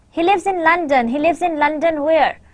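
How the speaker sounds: "London" and "where" both fall like statements; no question intonation. Shown as a demonstration. Teacher contrasting examples, falling tune even on "where". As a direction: run it through with falling tunes, no questioning lift. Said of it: "example number one or example number two".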